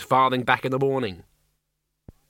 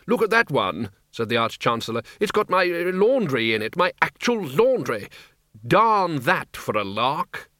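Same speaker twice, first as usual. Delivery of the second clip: blustering Arch-Chancellor; 3 semitones higher than usual. Acted. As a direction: bluster at the runaway laundry.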